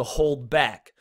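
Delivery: slow "hold back", both words stressed; spondaic stress. Shown as a demonstration. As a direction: give "hold" and "back" equal weight. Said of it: "a stressed and then another stressed".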